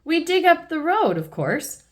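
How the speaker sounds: of course, with relish; Mister Bull. Acted. Mister Bull proudly telling Peppa they'll dig up the road. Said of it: "says Mister Bull".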